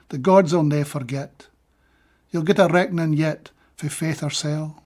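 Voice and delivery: measured recital of a Scots verse; steady Scots poetry recital; poem reading. Acted. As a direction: read it like a poet giving a reading. Reading own Scots poem translations.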